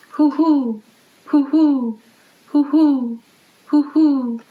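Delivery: high, hollow hoo-hoo like an owl at night; owl hooting. A narrator's reading. Reading to children, imitating the owl's high hoots. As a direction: hoot each one like a barred owl, falling off. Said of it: "the song of brown-eyed barred owl".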